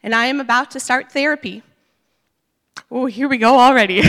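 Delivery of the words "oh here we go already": laughing. Real, not acted. Laughs at own nerves.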